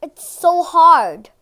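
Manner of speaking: loud, slow, mouth full; chewing. Real, not acted. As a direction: struggle through a chewy bite. Chewing a tough gummy.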